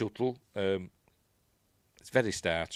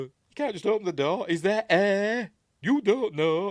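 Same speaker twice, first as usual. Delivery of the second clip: much higher and louder panicky yelp; freaking out; 11 semitones higher, 9 dB louder than usual. Retold or imitated. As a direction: shriek the warning in a frightened rush. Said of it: "Guy again freaks out".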